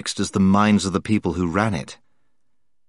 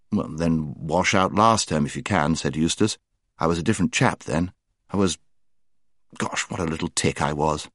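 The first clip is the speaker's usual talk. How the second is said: put-on rueful boy; 4 semitones lower, 4 dB quieter than usual. Eustace, lower, rueful.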